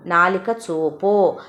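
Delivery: slow, stretched-out doctor's order; drawn-out command. Acted. Doctor telling patient to show his tongue, drawn out. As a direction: spell it out slowly for the patient.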